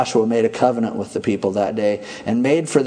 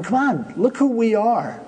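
mock boastful; 4 semitones higher than usual. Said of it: "they're going".

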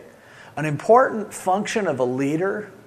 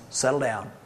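soft, low and calming; God quieting his frightened sheep, softly; soothing hush; 4 semitones lower, 7 dB quieter than usual. Acted. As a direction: settle them down gently and quietly. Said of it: "He goes".

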